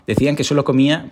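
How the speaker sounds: ordinary talk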